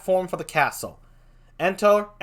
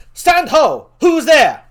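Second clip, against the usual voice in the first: much higher, loud sentry shout; guard shouting halt into the night; shouted challenge; 14 semitones higher, 13 dB louder, slower than usual. Acted. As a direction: yell the challenge at approaching figures.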